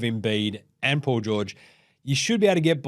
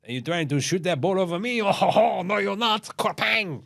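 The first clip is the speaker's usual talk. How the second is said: playful, higher taunting voice with a laugh; taunting giant voice; 5 semitones higher than usual. Acted. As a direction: tease the shooter from above. Wemby taunting a shooter.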